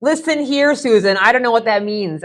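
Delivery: talking back to GPS. Retold or imitated.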